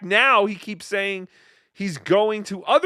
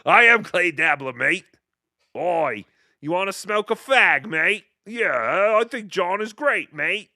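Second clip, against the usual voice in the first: British accent impression. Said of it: "That's a pretty good clay dabbler".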